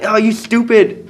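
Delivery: high, drawn-out retold scolding; mock scolding. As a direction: imitate an exasperated grandmother. Imitating grandma's scolding.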